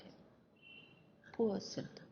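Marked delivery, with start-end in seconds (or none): none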